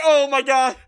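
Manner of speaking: high, loud cry through laughter; mortified laughter. Retold or imitated. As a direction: wail it while cracking up. Retelling own mortified reaction, laughing.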